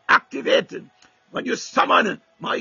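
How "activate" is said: loud, ringing call to activate; shouted command. Real, not acted. Preacher commanding the congregation, shouting. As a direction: fire the word out at the church.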